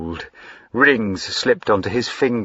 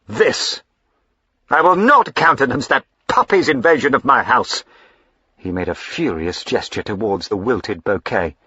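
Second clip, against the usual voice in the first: stern anger; 3 semitones higher, 3 dB louder than usual. Acted. Husband continuing furious rebuke.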